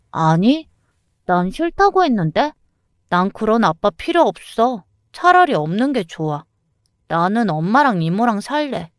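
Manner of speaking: a hint of a stubborn child refusing her dad; sulky young daughter. Daughter refusing to see her father, pouting lightly voiced girl.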